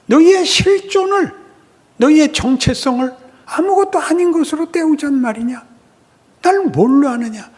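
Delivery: high, loud indignant outcry; God shouting in anger. Acted. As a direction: thunder at the people as a wounded father. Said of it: "하나님이 거꾸로 얘기하는 거예요".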